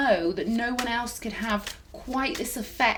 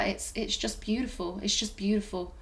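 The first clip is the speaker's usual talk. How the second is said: soft, choked-up words, voice dropping away; moved, emotional; 2 semitones lower, 5 dB quieter than usual. Real, not acted. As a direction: let the feeling catch in your throat. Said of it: "I'm getting quite emotional".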